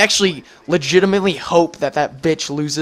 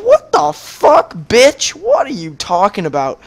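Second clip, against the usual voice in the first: mock outraged retort; 4 semitones higher than usual. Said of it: "So I was like".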